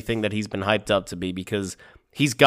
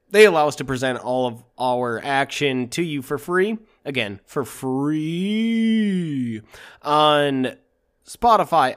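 sultry perfume ad. Acted. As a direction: stretch out "for free" like a perfume ad. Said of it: "The sultry voice of Joe".

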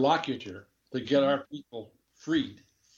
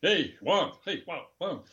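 put-on higher-pitched heavy Spanish accent; 5 semitones higher than usual. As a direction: imitate a colleague's thick Spanish accent. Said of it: "with a heavy Spanish accent".

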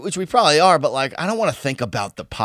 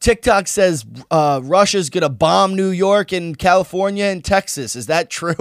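put-on worried little girl; 5 semitones higher than usual. Daughter home from school asking mom, higher anxious child voice. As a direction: play the scared kid running home to ask. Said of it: "her daughter comes home from school and goes".

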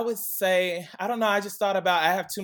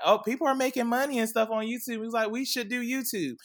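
imitating brother; 8 semitones higher than usual. Brother pitching YouTube, retold.

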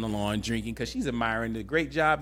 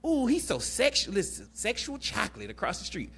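put-on much higher, ogling girlfriend voice; sassy best friend; 10 semitones higher than usual. Best friend ogling the neighbor, high sassy gush. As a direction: gush over the man across the street in a high sassy voice. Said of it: "she says".

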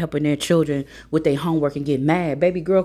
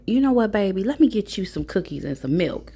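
slightly raised, sugary mom voice; mock-sweet mom; 4 semitones higher than usual. Mom offering son's friend cookies, lightly imitated sweetness.

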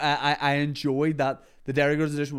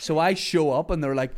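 normal talking voice

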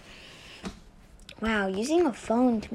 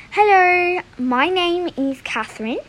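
lightly put-on character voice with a higher, louder hello; Catherine; 6 semitones higher, 4 dB louder than usual. Shown as a demonstration. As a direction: demo a character's greeting, only slightly altered. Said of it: "this one is Catherine's voice".

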